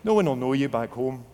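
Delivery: mild taunt, pitch jumping up on "Who are you"; lightly voiced accuser, challenging him; accusing inner voice. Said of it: "the whispering voice would come like clamor".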